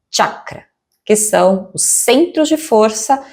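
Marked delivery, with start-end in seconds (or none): 0.1-0.6 CHAKRA opened with a tch sound; correct pronunciation. Shown as a demonstration. Yoga teacher repeating the correct form for students, CHAKRA with a tch. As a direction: say "chakra" as "tchakra", T before the sh. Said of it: "Então, a pronúncia correta".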